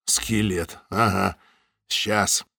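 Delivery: low, dismissive scoff; sarcastic. Acted. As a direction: brush it off sarcastically. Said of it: "Самойлов хмыкнул".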